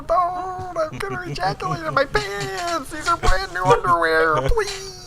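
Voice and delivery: panicky Dipper voice. Acted. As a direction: squeal it like a frightened kid. Dipper panicking in a fanfic reading.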